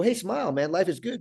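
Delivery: mock-cheerful pep talk; upbeat urging. People urging him to cheer up.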